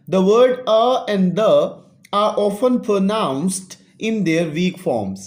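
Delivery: each English word read slowly and clearly for students; slow classroom read-aloud. Shown as a demonstration. Teacher reading the English text aloud to students, slow and clear.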